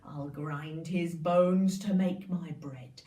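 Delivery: low, loud giant roar, slowing at the end; the giant arrives sniffing for Jack, low booming voice. Acted. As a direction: boom it out like a huge giant. Giant enters the kitchen.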